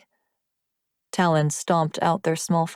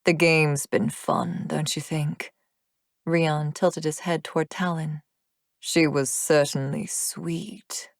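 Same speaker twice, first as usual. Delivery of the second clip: wicked demon taunt. Acted. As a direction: savour the cruelty slowly. Demon mocks her, wicked smile.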